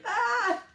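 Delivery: high-pitched "ah!" of sour shock; imitated sour-hit "ah!". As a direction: let out a high, playful yelp as the tang hits.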